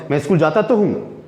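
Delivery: mildly irritated, stress on तो; a touch of annoyance. Shown as a demonstration. Asked again, teacher answers mildly annoyed. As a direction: lean on तो with mild annoyance. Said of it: "मुझे थोड़ा सा गुस्सा है".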